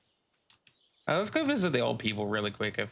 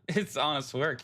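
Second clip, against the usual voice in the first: meme quote; 3 semitones higher than usual. Acted. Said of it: "It's meme worthy".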